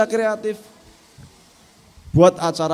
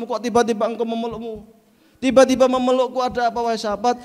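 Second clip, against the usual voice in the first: surprised Prophet; 3 semitones higher than usual. Acted. Prophet asking the embracing companion, surprised. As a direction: ask in gentle astonishment.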